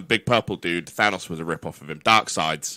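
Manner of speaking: deep, low supervillain voice; booming echoing villain monologue. Acted. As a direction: intone it like a doom-laden villain. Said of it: "I'm gonna do it".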